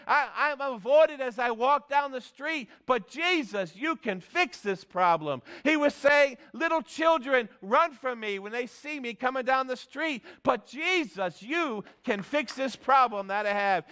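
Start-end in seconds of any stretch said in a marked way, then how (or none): 0.0-5.4 retold plea in a raised pitch, easing down at the end; pleading cry. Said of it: "this leper was crying out". 6.5-13.8 retold plea in a raised pitch, easing down at the end; pleading cry. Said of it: "this leper was crying out".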